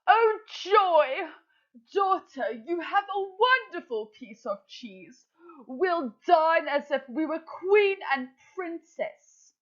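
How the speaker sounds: high, excited mother crow; Madam Crow voice. Acted. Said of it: "I'm going to put on a voice".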